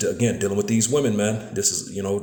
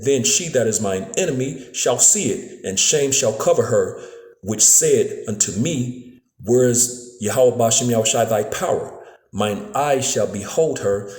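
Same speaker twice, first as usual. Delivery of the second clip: slow, solemn scripture reading. Acted. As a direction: read the verse slowly, like Bible study. Reads Micah seven ten.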